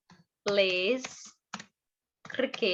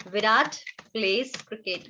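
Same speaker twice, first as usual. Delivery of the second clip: slow dictation; much slower than usual. Shown as a demonstration. Teacher dictating example sentence.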